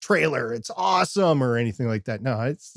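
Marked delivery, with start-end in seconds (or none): 0.0-1.4 high-pitched mock fan excitement; put-on high, thrilled squeal of interest; gushing young fan. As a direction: gush like an excited kid fan. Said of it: "go into one of their groups and say".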